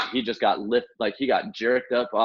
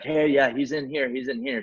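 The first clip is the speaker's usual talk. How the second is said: slightly raised pitch, quick imitation of a woman calling; lightly voiced lady; 4 semitones higher than usual. Lady on the boat pointing rescuer to the patient, lightly voiced. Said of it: "there's a lady right there".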